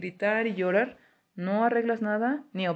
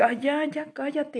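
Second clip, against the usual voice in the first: retold exasperated snap; 8 semitones higher, slower than usual. Retold losing temper with daughter.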